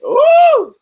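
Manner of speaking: ordinary talk, nothing marked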